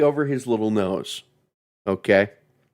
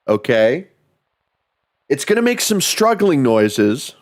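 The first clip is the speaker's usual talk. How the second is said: emphatic, raised pitch on each don't; mock reassurance; 4 semitones higher than usual. Mock parent telling child to ignore basement noises, insistent. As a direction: insist in broken-up, punched phrases.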